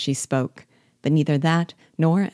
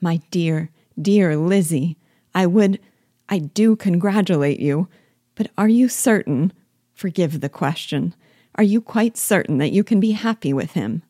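eager, anxious Jane; 3 semitones higher, 3 dB louder than usual. Acted. Jane's eager, anxious congratulations.

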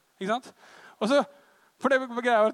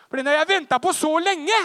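wailing complaint; 7 semitones higher, 10 dB louder than usual. Retold or imitated. Goes to his room crying.

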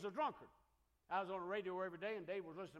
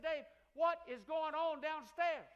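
higher, louder, drawn-out demand; alarmed question; 6 semitones higher, 5 dB louder, slower than usual. Retold or imitated. Preacher retelling asking Dave, alarmed and louder. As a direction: stretch it out in alarm. Alarmed at teens going downstairs.

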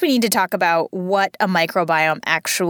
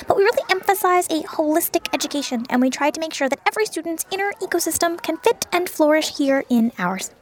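chirpy admissions rep; 5 semitones higher than usual. Acted. School admissions rep pitches parent.

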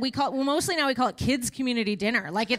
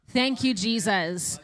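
grateful cheer; slower than usual. Retold or imitated. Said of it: "we're like".

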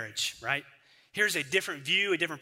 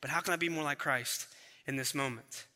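soft, lower, hushed self-question; quiet inner question; 3 semitones lower, 6 dB quieter than usual. Retold or imitated. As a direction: ask yourself quietly, almost prayerful. Prayerful self-question inside sermon.

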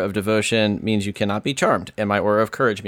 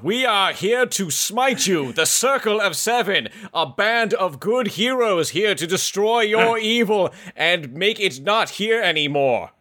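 lightly voiced southern drawl paladin; a hint of a southern drawl; 7 semitones higher than usual. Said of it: "By the southern drawl of Rhaegar".

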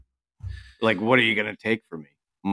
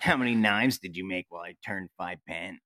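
put-on Maine lobsterman voice; coastal Maine accent; 5 dB quieter than usual. Podcaster playing along as the friend, mock Maine accent. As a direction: imitate a coastal Maine local. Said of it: "he talks all fucking weird".

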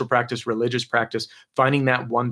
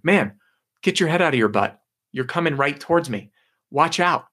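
raised, higher voice, calling out across the water; annoyed shout; 4 semitones higher than usual. Retold or imitated. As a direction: warn the other canoe off, half-shouting. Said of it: "he's like".

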